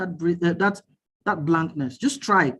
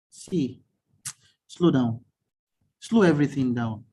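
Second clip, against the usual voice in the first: low, unhurried, with long pauses; calm guidance; 5 semitones lower than usual. Real, not acted. Coach telling a stressed listener how to start, calm and low. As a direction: guide them gently into slowing down, voice dropped low.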